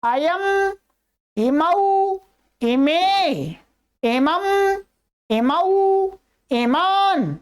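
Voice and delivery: steady, slow Sanskrit chant of each form, pitch lifting on some; recitation from memory. Shown as a demonstration. Teacher reciting by heart while students read along, slow chant. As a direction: recite the table by heart at an even pace. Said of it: "मैं बिना देखे बोलता हूं".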